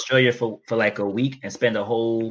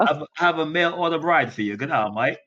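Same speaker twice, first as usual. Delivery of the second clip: put-on Australian accent; 3 semitones higher than usual. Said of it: "You wanna hear my Australian accent?".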